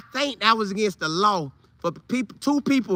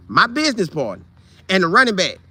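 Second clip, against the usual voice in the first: normal talking voice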